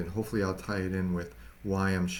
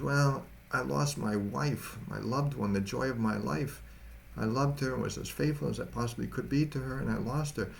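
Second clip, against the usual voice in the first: put-on grieving young husband; 5 semitones higher than usual. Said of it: "sobbing and grieving".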